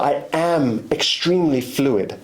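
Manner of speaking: "extremely fluid" said slowly and deliberately; emphatic stress. Real, not acted. Telling listeners what he is, emphatic stress. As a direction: lean firmly on "extremely fluid". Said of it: "I'm emphasizing on this word".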